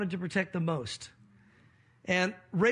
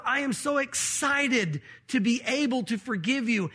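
excited forgiveness; 2 semitones higher than usual. Retold or imitated. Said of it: "It was a matter of".

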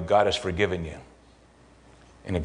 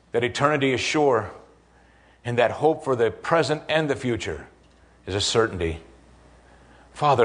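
closing prayer. Real, not acted. Pastor leads the congregation in closing prayer, earnest and measured. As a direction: pray it over the congregation.

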